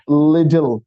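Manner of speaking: little with a light d in the middle; little, the tt softened to d. Shown as a demonstration. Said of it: "एल आई डी ई एल". (little में हल्की D की आवाज़)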